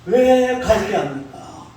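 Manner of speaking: mock indignant protest, slowed on 왜 갈대합니까; the prophet complaining to God in a half-acted indignant voice; prophet arguing with God. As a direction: imitate an angry prophet questioning God. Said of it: "하나님 앞에 따지는 거예요".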